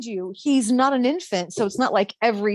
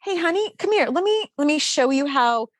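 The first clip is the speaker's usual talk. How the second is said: straight-faced kindness; 2 semitones higher than usual. Retold or imitated. Mom showing babysitter how diapers work, straight-faced kindness. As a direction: coax gently, hiding your disbelief. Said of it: "keep my face straight and go".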